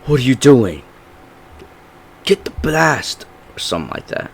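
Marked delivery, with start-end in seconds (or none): 0.0-3.3 high, urgent mock yell; acted-out shout, pitched up; Butcher's yell. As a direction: yell it like an order mid-fight. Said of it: "as Butcher yells".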